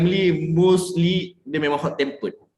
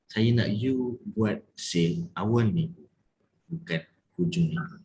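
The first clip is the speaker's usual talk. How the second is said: firm, not angry; 5 semitones lower, 5 dB quieter than usual. Shown as a demonstration. Coach asking for sales early in the week, firm. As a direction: spell it out word by word, dropping at the end. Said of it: "So, bila tegas? Macam mana nak jadi tegas?".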